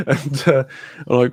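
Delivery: normal talking voice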